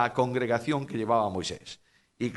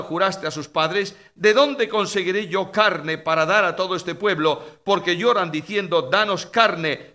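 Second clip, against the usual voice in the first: exasperated protest; 4 semitones higher, 5 dB louder than usual. Acted. Moses protests to God.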